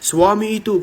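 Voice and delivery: omelan istri Arab, agak tinggi dan keras sedikit; pura-pura memarahi suami dengan nada menantang; menirukan istri ribut. Retold or imitated. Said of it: "istri itu ribut". (tiruan istri yang ribut, marah setengah bercanda)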